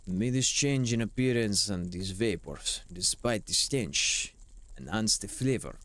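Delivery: hammed-up grand recital; dramatic game text reading. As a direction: declaim it like a stage monologue. Reads game text theatrically.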